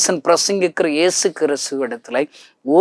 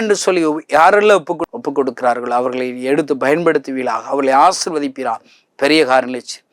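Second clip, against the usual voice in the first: fervent closing prayer. Acted. Preacher prays to the Father for his listeners, building fervently. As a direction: pray over the congregation with mounting fervour.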